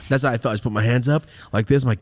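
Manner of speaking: ordinary talk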